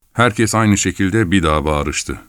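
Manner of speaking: plain reading voice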